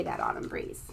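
a touch of a deep spooky voice; spooky low voice. Acted. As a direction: drop low and eerie for a tease. Spooky aside about the wind.

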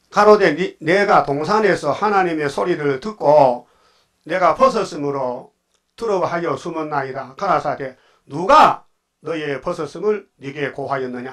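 slow, measured Bible reading; scripture reading. Acted. Preacher reads Adam and God's words to the congregation, slow. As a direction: read the verses deliberately, word by word. Reads Genesis aloud slowly.

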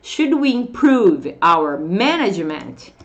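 slow question, "improve" stressed and stretched; "improve" drawn out on "-prove"; strong stress. Shown as a demonstration. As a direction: lean on the second syllable of "improve". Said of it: "aqui que tá a entonação forte".

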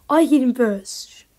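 loud, slow angry yell; raging gamer. Real, not acted. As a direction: shout the claim furiously. Gamer yelling about a kill.

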